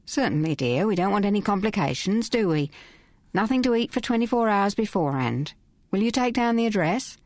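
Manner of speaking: a touch of brisk, businesslike matron. Acted. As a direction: get efficient and matter-of-fact. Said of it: "The voice became brisk".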